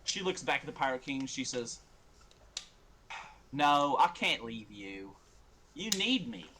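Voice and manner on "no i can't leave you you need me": slow, drawn-out plea in a lightly voiced character; pleading little one. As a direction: plead to stay useful, lightly acted. Purdy pleads with Pirate King.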